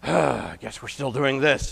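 resigned grumble. Retold or imitated. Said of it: "sighs ... he says".

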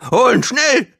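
high, urgent creature shriek; screaming. A narrator's reading. Gong urges the guards to fetch Phil, screaming. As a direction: screech it, hurrying the guards along. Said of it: "schrie Gong".

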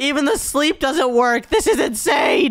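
high, slow despairing cry; exasperated outburst. Acted. Telling friends even sleep failed, exasperated outburst. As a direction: draw it out at wit's end.

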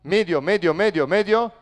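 rapid repeated warning call; teammate's shout. Shown as a demonstration. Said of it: "Él te grita".

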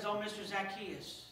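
quiet, weary plea; a touch of a worn-out woman begging; mild downtrodden sigh. Acted. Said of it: "who was downtrodden and, and suffering".

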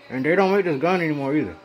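speaking with something in the mouth; muffled words around a mouthpiece; mouth full. Real, not acted. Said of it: "Sorry, I got this in my mouth again".

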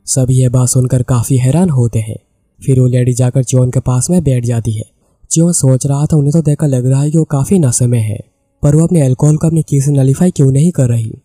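plain reading voice

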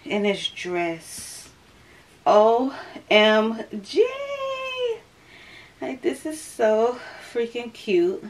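slightly out of breath, late pregnancy. Real, not acted. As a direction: talk between short breaths. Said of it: "it sounds like I'm out of breath".

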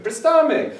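"Prestame" as a high pres-TA-me, like an Italian dish; missing accent. Shown as a demonstration. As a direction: stress the middle of "Prestame". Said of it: "it sounds like a delicious Italian food".

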